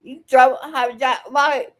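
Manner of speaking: loud, firm telling-off; angry scolding. Real, not acted. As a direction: lay down the law to him, loudly. Heated confrontation with a stranger.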